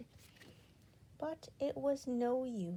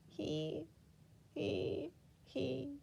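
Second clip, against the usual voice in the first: miserable; 5 semitones higher, 6 dB quieter, much slower than usual. A narrator's reading. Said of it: "she said miserably".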